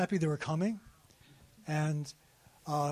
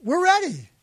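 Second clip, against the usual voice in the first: hopeful imagined reply; 10 semitones higher, 7 dB louder than usual. Retold or imitated. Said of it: "convinced that they're gonna say".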